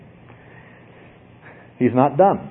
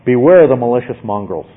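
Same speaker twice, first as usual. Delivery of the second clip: firm, somewhat louder warning; forceful; 4 dB louder than usual. Shown as a demonstration. Preacher showing how forcefully Paul speaks, firm warning. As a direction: drive the warning home. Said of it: "how forcefully Paul is speaking".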